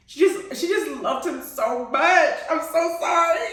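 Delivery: high gush breaking into laughter; overcome, laugh through the words; tearful laughing. Real, not acted. Fan apologizes for getting emotional over the love story, tearful laughing. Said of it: "I'm crying".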